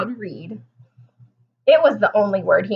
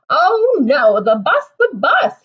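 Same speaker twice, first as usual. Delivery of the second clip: high, loud panicked cry; Froggy panics about missing the bus; 4 semitones higher, 6 dB louder, slower than usual. A narrator's reading. Frog panicking as he wakes late, loud high cry. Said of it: "he cried".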